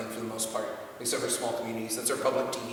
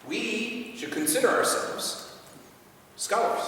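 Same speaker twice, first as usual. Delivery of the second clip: higher, very slow with pauses; emphatic slow; 8 semitones higher, much slower than usual. Real, not acted. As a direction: weigh each word. Slow emphatic rhetorical line.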